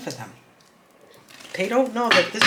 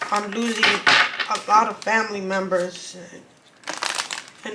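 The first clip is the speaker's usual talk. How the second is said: emotional, holding back tears; slower than usual. Real, not acted. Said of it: "It's very emotional".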